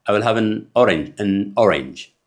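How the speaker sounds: very slow, "an" kept weak; slow careful drill. Shown as a demonstration. Teacher drilling "an orange" slowly. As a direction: spell it out slowly for learners. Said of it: "ኣ የለን".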